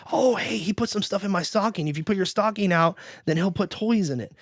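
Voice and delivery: a hint of an eager child; lightly voiced kids. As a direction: lightly imitate kids sharing news. Kids in the story talk.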